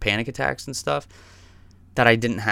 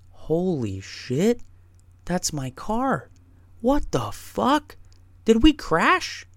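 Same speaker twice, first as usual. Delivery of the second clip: panicked, much higher and slow, voice cracking up; freaking out; 11 semitones higher, slower than usual. Retold or imitated. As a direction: imitate a driver who just realized he crashed. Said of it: "He starts freaking out".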